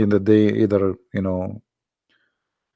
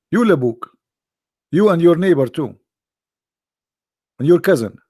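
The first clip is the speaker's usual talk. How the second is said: louder, higher jabs at each "you"; teasing comeback; 4 semitones higher, 5 dB louder than usual. Real, not acted. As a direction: pile on the teasing, one jab at a time. Teasing insult to the chat.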